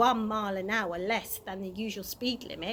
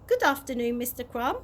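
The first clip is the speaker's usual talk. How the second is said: brightly; 3 dB louder than usual. Acted. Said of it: "said Mister Stink brightly".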